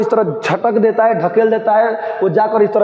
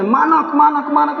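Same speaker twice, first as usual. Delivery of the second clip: high calling cry to her son; 5 semitones higher than usual. Acted. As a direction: call out to the son in a dream. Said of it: "उसी तरह चिल्ला रही है।". (ऊँची आवाज़ में बेटे को पुकारना)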